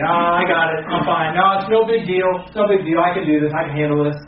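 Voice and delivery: a hint of a proud brush-off; dismissive brush-off. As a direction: wave it away like nothing's wrong. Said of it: "where you say".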